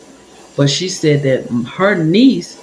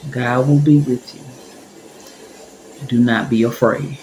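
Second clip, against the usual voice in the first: low, measured comfort with long pauses; calm reassurance; 4 semitones lower than usual. Retold or imitated. Older lady comforting a scared pregnant woman, calm. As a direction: reassure gently, pitched a little down.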